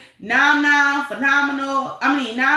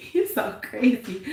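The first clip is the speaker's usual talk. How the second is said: laughing. Real, not acted. Laughing at a chat comment.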